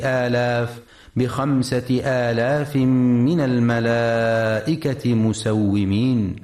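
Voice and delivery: slow, level chant with long held vowels; Quran recitation. Shown as a demonstration. Teacher reciting a verse to radio listeners, slow Quran recitation. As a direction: recite slowly on a sustained tone, stretching the elongations.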